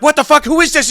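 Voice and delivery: very high, loud, baffled yell; imitating Mario. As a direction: squawk like a confused tweaker. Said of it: "And he's like".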